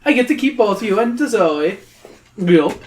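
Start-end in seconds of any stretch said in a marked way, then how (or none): 0.1-1.8 high, louder gloating troll; greedy troll. Acted. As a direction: gloat over the prize as the troll.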